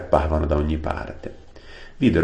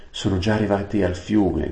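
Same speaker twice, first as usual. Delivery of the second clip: mild shout; 4 semitones higher than usual. Acted. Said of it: "gridò".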